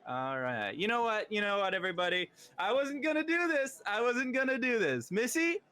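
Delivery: high, showy lord calming his party guests; pompous host. Acted. Lord hushing his party guests, pompous and high. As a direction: boom it out like a vain birthday host.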